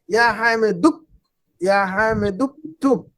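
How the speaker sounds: "या हामिदुक, या हामिदुक्तुब" joined with the hamza silent; linked reading demo. Shown as a demonstration. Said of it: "पढ़ने में गायब है ये". ("या हामिदुक्तुब" जोड़कर पढ़ना)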